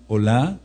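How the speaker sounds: "Olá" with the accent on the last vowel; stress on final A. Shown as a demonstration. Teacher spells out the term, stressing the A in "Olá". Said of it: "con acento en la A".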